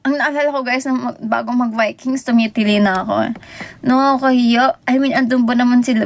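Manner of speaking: ordinary talk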